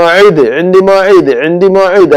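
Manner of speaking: मौइद said slowly as "maid" with the ain; correct maw'id. Shown as a demonstration. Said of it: "मौइद नहीं बोलना है". (मौइद को धीरे, हलक वाली ऐन के साथ)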